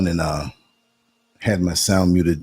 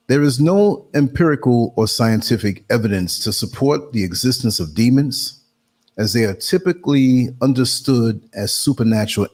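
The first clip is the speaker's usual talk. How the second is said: reading aloud; 3 semitones higher than usual. Real, not acted. Reads out an AI response.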